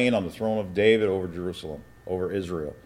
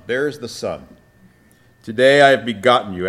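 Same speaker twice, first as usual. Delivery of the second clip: raised, declaiming Bible reading; scripture reading; 4 dB louder than usual. Acted. Preacher reading Psalm two to his class, declaiming. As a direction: proclaim the psalm to the congregation.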